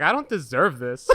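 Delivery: a laughing half-yell of disbelief; laughing mock shout. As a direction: blurt it out through laughter. Girl's reaction, laughing.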